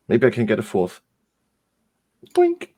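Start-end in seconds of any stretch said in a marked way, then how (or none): 2.3-2.7 squeaky boink sound; high cartoon boink. Imitated sound effect.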